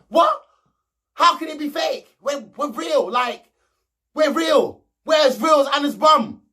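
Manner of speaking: hammed-up disbelief, insisting they're real; shocked Molly. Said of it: "she was proper shocked".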